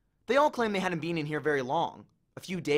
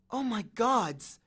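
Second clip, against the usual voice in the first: dawning shock; 6 semitones higher, much slower than usual. A narrator's reading. Annabeth realizing.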